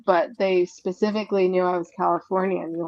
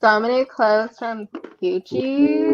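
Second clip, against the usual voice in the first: put-on Valley girl voice; 3 semitones higher than usual. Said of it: "talking like a Valley girl".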